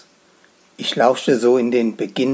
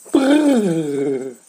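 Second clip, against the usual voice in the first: shiver; 3 semitones higher than usual. A narrator's reading. Shiver at slimy touch.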